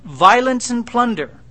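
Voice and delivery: loud anguished outcry; crying out. Retold or imitated. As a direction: proclaim it to the crowd. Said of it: "I cried out, I shouted".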